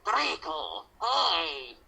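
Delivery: bright, bouncy hello; overly cheerful greeting. Acted. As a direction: greet him way too happily. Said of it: "bipolar much?".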